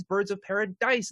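Paradise, punching the final DICE; stress on last syllable. Real, not acted. Host explaining the sponsor's pun, stress on the DICE in Paradise. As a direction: make DICE stand out in Paradise. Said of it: "I will always emphasize that last syllable".

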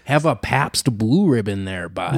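put-on light, friendly Wisconsin accent offer. Riffing on Dahmer's folksy talk in a lightly done Wisconsin accent. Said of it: "he's got that Wisconsin accent".

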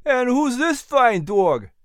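high, drawn-out delighted question; big grin. Acted. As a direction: fuss over a dog with a grin. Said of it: "Henry asked with a big grin".

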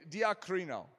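"diacrino" with an emphasised kr; added kr sound. Shown as a demonstration. Preacher adding his own sound to the term, emphatic kr in "diacrino". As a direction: lean on the kr in "diacrino". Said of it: "if it has the kr in it".

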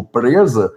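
"presa" in a tongue-tied way; imitated tongue-tie. Shown as a demonstration. Showing what worried his father, "presa" said tongue-tied. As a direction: mimic a stuck tongue on the r of "presa". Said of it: "as palavras de um jeito".

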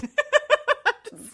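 sudden high-pitched laugh; high giggle. Real, not acted. Laughs at the teasing.

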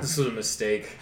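breathless, gasping between words; winded, short on air; out of breath. Real, not acted. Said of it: "You sound out of breath".

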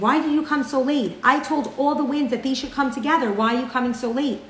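a touch of a giant's angry rebuke. Acted. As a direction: scold the late wind. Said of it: "the giant grew very angry".

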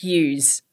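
yous said with a stretched z at the end, as "yooz"; Queensland yous. Shown as a demonstration. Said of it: "they've got this particular word".

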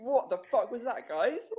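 muffled, as if gagged. Acted. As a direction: speak through a hand over the mouth. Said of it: "just ignore the muffled voices in the background".

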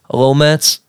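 lightly voiced friendly barber; a hint of a Turkish barber. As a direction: play the chatty barber. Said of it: "sound like I'm a Turkish barber".

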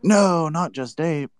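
high, drawn-out protesting no; dismayed. Real, not acted. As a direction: cry out slowly in dismay at bad news. Dismayed at news of project leaving.

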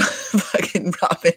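slowed, laughing through the words. Real, not acted. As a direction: barely get the name out for laughing. Laughing while retelling the insult exchange.

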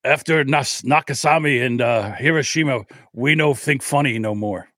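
badly faked Japanese accent, stilted and halting; mock Japanese accent drifting into caricature. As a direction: attempt a Japanese accent and miss. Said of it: "why does my, uh, a Japanese accent sound like an Indian chief".

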